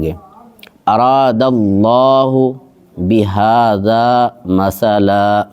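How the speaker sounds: slow, drawn-out tajweed chant; Quran recitation. Shown as a demonstration. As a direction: recite each word long and measured. Recites verse slowly. (تجوید کے ساتھ آہستہ تلاوت)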